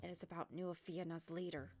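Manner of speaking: put-on low, careful old sage voice; a hesitant elder sharing news; old man voice. Old man reveals a secret.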